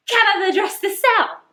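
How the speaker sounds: very high, slow Yorkshire; Yorkshire maid gasping in disbelief; broad Yorkshire, astonished; amazed broad Yorkshire. A narrator's reading. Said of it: "She spoke in broad Yorkshire in her amazement".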